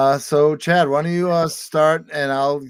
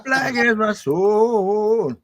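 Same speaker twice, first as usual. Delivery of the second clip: laughing; 10 semitones higher, 5 dB louder, much slower than usual. Pretend. Hammy rhyme through a laugh.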